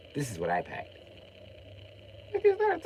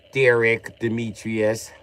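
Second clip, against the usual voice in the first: Wisconsin accent; 4 dB louder, slower than usual. Shown as a demonstration. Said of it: "Said with a little Wisconsin accent".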